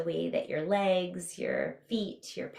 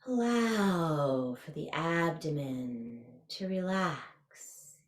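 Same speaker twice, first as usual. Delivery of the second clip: guided meditation. Real, not acted. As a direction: ease them through a body scan, stretching key words.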